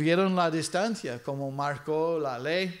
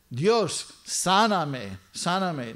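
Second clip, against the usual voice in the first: urgent plea; 2 semitones higher, much slower than usual. Shown as a demonstration. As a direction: plead with God, no time to lose. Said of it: "sino de urgencia". (clamor urgente)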